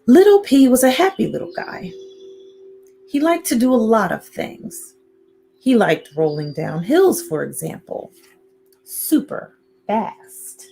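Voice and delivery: lively storybook narration; reading to children. A narrator's reading. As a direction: read it playfully to little listeners. Reads picture book to children.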